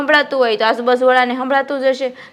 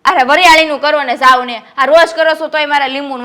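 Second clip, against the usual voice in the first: loud, insistent wife ordering him off; bossy nagging; 5 dB louder than usual. Acted. Wife pushing husband to make fennel sherbet, loud and bossy. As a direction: shoo him to the kitchen with a raised voice.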